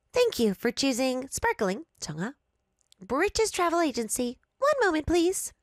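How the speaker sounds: chirpy formal service voice; polished customer greeting; clerk voice. Acted.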